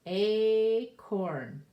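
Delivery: called out loud and proud; loud acorn. Shown as a demonstration. Teacher calls out the picture name loud. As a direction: sing out the answer, Acorn!. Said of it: "Do you know what that is?".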